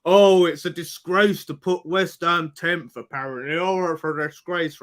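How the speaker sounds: slow mock-outraged quote; Potts. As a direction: imitate a complainer, drawn out. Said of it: "Potts likes to throw this out".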